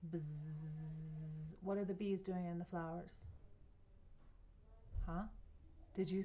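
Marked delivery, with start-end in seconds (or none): 0.1-1.5 bee buzz. A narrator's reading. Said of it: "I hear bees in the flowers".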